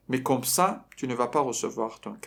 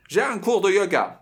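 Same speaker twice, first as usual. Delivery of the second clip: stuck-up, higher and louder, nose in the air; a girl showing off her yoga class; haughty girl; 6 semitones higher, 5 dB louder than usual. Retold or imitated. Teacher mimics the girl putting on airs.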